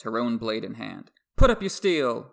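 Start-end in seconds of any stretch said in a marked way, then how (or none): 1.4-2.3 a sharp shout, higher and louder. Acted. Brienne shouting at Stannis to sheathe his sword. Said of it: "she shouted at Stannis".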